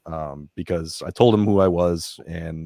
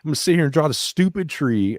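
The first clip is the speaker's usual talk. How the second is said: grumbling inner voice; 8 semitones higher than usual. Retold or imitated. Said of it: "I'm saying this in my head".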